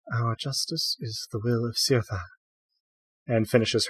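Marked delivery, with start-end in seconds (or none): 0.1-2.2 quiet, calm and measured. A narrator's reading. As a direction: state it calmly, without heat. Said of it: "Ia very calmly says".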